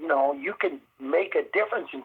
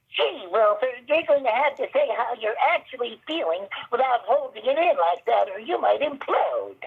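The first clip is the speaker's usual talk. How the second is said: high squeaky put-on talking-computer voice; 8 semitones higher, 3 dB louder than usual. Retelling playing the one with a voice-activated system, talking to wilford: high-pitched squeaky voice. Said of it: "I went into a high-pitched, squeaky voice".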